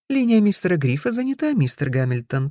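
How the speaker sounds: high, fast sing-song reply. Acted. Operator chirps to Ted, high sing-song. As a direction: lilt it like a cheerful operator. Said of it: "пропела она".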